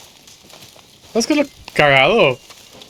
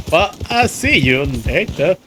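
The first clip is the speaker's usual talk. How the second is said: put-on Forrest Gump southern accent. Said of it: "con ese acento sureño". (imitación ligera del acento sureño)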